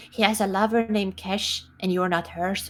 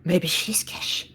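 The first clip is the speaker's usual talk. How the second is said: whisper; 3 semitones lower, much slower than usual. Real, not acted. Whispered aside to party.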